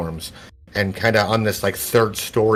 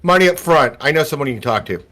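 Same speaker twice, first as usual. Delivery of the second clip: put-on street kid; 5 semitones higher, faster than usual. Game master voices kid bargaining.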